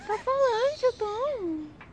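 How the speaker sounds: very high, soft, sing-song pet talk. Real, not acted. Teasing the chatty cat Tom in very high baby talk.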